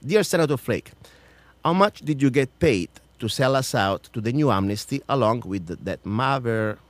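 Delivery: pointed open-letter reading; emphatic public question; formal read-out challenge. Acted. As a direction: read it out firmly, like questioning a senator. Reads out questions to senator.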